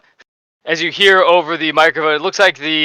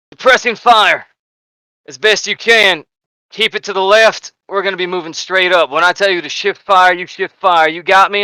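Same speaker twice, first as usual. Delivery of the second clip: lightly voiced sergeant, firm field orders; sergeant giving orders; 3 semitones higher than usual. Sergeant briefing heavy gunners on suppressing fire, lightly raised voice. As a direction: raise it slightly and instruct the gunners. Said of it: "looks over at the other two heavy gunners".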